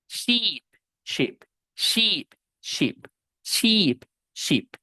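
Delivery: first SHEEP long, second SHEEP quick as in ship; long i versus short i. Shown as a demonstration. Teacher contrasting oveja and barco, long versus short i. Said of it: "Son sonidos diferentes".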